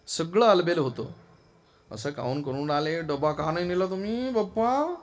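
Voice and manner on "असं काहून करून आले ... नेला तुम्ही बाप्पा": lightly acted wife's scolding, rising louder toward the end; mock domestic complaint, pitched up at the end; complaining wife. Wife asks husband why he left his lunchbox, mock complaining.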